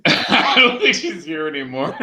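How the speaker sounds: quoting him through laughter; half-laughed imitation; laughing quote. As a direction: mimic the line while cracking up. Quoting Tom while cracking up.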